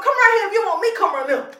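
playful mock summons; demanding call. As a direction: call them over, demanding.

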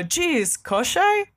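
villain with a put-on Russian accent; menacing fake Russian villain; Koschei voice. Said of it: "Loving this Koschei voice".

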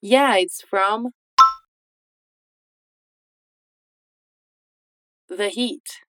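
slow, split drill read; slow model line. Shown as a demonstration. Teacher drills the answer slowly again. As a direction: repeat it slowly in two parts. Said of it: "Again, de novo".

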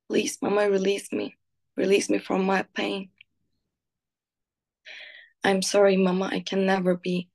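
poem reading. Acted. Reading her own poem about her mother aloud, tender and pained. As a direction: read it like a painful letter to your mother.

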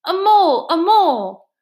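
high, loud acted battle shout; war cry. A narrator's reading. Mole storms in brandishing his stick, high war-cry shout. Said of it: "shouting his awful war cry".

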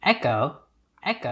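faint repeated echo; cave echo. Pretend. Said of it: "Are we podcasting from a cave?".

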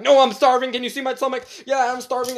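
mock yell of desperate insistence; imitated screaming beggar. Retelling an old man demanding money, mock screaming. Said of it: "screaming at me to give him money".

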